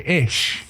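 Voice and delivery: ish with a sh sound as in shell. Shown as a demonstration. Cohost recalling his guess at Berlin speech, sh sound. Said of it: "with a, like, shell sound".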